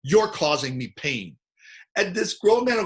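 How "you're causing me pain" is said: slow deliberate accusation. Shown as a demonstration. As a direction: say it slowly, pointing at him. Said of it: "and I'll go".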